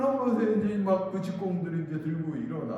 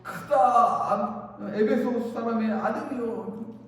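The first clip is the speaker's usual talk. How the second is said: retold rallying cry, raised and drawn out; imitated crowd shout; 4 semitones higher, slower than usual. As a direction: stretch out the first word like a chanting mob. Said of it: "외치는 거예요".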